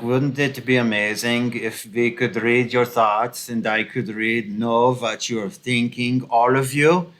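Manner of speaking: lightly put-on Germanic accent, relishing each word; a hint of villainous Germanic accent; mock Klaus Schwab accent. Commentator mimicking an elitist dreaming of mind-reading, light Germanic accent. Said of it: "gets all giddy and excited about".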